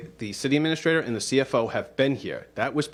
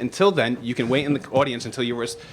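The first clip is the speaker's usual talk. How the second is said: firm, louder stern lecture; calm turning angry; 4 dB louder than usual. Real, not acted. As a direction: lay down the law, getting louder. President lectures the mayor sternly.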